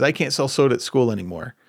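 imitating a frustrated teen, loud at the end; frustrated son. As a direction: play the son's angry complaint, rising into a loud outburst. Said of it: "he was angry and frustrated".

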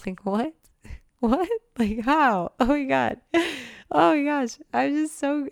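high, laughing squeals of disbelief; giddy laughing disbelief. Real, not acted. Showing off new apartment, giddy laughing squeals. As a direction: laugh it out, delighted and amazed.

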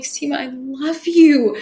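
slow, tender "I love you" with a touch of emotion; mean "I love you" this time. Retold or imitated. Recalling finally loving herself in the mirror, tender and slow. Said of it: "And I would just cry".

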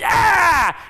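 high, loud yelp; startled cry. Acted. Preacher acting the shock of the grab. Villain grabs the leg.

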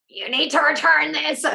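high, loud, pushy demand. Retold or imitated. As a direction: insist on it, loud and sharp. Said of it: "not like".

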